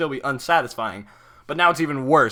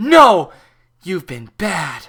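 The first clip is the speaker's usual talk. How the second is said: stern, very loud, high-pitched growl; 5 semitones higher, 9 dB louder than usual. Narrator reads Fluttershy's line to the T-Rex monster, Fluttershy growling. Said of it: "Fluttershy growled at the monster".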